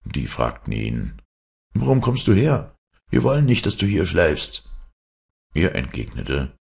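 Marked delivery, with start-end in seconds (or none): 1.7-4.7 raised pitch, confronting the newcomer; challenging boys. Acted. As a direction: challenge him in a higher storybook voice.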